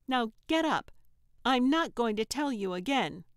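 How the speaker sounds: loud, high final warning; stern order. Acted. Trixie ordering Gertrude up for the last time, stern. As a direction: snap the command, no patience.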